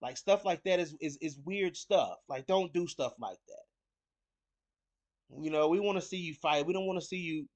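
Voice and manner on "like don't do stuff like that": drawn-out, deliberate warning; slow, pointed admonishment; slow scolding. Real, not acted. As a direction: spell it out slowly like a scolding. Scolding fighters for taunting.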